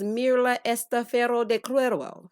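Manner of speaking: amateur stab at Spanish pronunciation; tentative Spanish accent; attempted Spanish accent. Shown as a demonstration. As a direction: try the Spanish name without rolled R's. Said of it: "my accent ain't accent".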